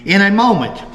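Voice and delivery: put-on measured old-account narration; reading aloud. Host reads the last article on Jim's killing, measured narration. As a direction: read it out in deliberate, separated phrases.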